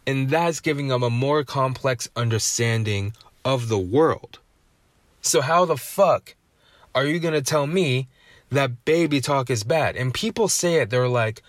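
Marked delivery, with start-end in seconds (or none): 5.2-10.0 indignant rant. Real, not acted. Ranting against baby talk myth.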